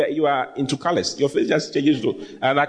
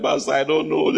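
mock reluctant son. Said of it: "When we say".

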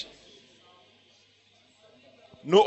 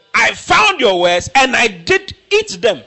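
slow forceful declaration; 3 semitones higher, 4 dB louder, slower than usual. Acted. Preacher restates verse forcefully.

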